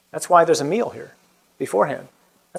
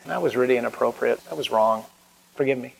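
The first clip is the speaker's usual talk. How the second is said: softer and lower, a humble confession; quiet apology; 5 semitones lower, 5 dB quieter than usual. Retold or imitated. Speaker quotes someone apologizing to him, softly. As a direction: say it low and soft, owning the wrong. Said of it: "somebody came back to me and said".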